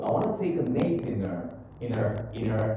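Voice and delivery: "nap in her" flowing as one word; linked words. Shown as a demonstration. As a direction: join "nap" to "in her" without a break. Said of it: "Jadi, disambung".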